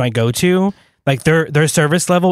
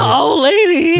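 incredulous; 14 semitones higher, slower than usual. Real, not acted. Incredulous echo.

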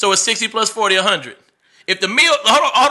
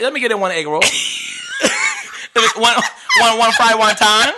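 choppy imitation Chinese-accented English; mock Chinese accent. Shown as a demonstration. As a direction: order takeout in a put-on Chinese accent. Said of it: "order Chinese with the Chinese voice".

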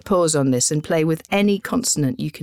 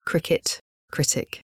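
whispered; 4 dB quieter than usual. Shown as a demonstration. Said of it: "tongue twister I want you to say".

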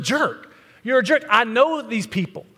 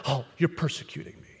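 mock whine; 7 semitones lower, 10 dB quieter, faster than usual. Mocking whiny pastors.

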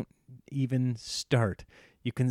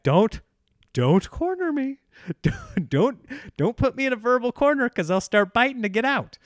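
retold plea; 9 semitones higher, 4 dB louder than usual. Himself pleading with following wife.

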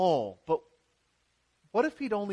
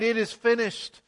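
raised, louder declaration; mild cried out; 4 semitones higher, 4 dB louder than usual. Retold or imitated. Preacher voicing Jesus' cry from the cross, raised and louder. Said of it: "When Jesus cried".

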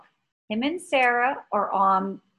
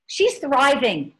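delighted; 4 semitones higher, 4 dB louder than usual. Real, not acted. Happy news about the dog.

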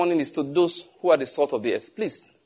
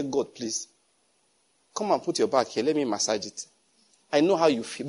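tender prayer; 4 semitones lower, 5 dB quieter than usual. Pretend. Pretend prayer comforting God.

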